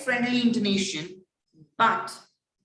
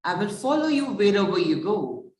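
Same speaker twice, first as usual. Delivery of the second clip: light, quick, friendly promise; breezy and affectionate, quicker pace; flirty or friendly; faster than usual. Shown as a demonstration. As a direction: say it as a sweet, flirtatious vow. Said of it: "In the first intonation, I will say".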